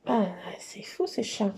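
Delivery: ordinary talk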